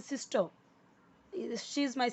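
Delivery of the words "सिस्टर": सिस्टर ending in a soft schwa, with no r sound; soft final er. Shown as a demonstration. Teacher shows children how सिस्टर is really said, r dropped. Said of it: "कैसे बोलते हैं?".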